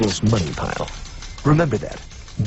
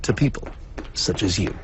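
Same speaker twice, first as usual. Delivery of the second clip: dramatic presenter narration. Acted. Narrator figure presents exhibits.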